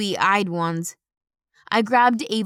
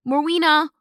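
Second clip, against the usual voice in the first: angry roar; 7 semitones higher, 4 dB louder than usual. Acted. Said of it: "The deep, violent snarl".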